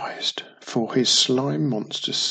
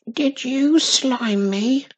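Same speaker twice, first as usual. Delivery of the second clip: slow, high commanding witch; 11 semitones higher, slower than usual. A narrator's reading. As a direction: demand an answer, slowly. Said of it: "Wizardy Witch commanded".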